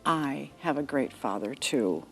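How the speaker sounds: soft, smiling and tender; with a smile. Acted. Jesus to the boy in his arms, softly smiling. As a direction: say it gently through a smile. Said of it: "with a smile".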